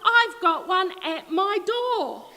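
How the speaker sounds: begging for rescue; pleading pig. Acted. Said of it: "Pig cried".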